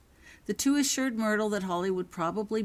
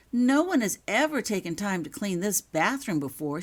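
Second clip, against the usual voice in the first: a touch higher and louder, eager; 4 semitones higher, 5 dB louder than usual. Acted. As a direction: gush with delight. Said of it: "she said eagerly".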